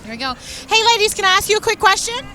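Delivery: muffled behind a mask; talking through a mask; through a face mask. Real, not acted. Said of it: "I have my mask on my face".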